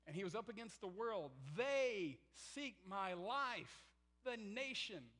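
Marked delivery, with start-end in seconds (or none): 1.6-5.0 slow, drawn-out, louder whine; hammed-up poor me; self-pitying Elijah. Elijah's exaggerated self-pity quoted.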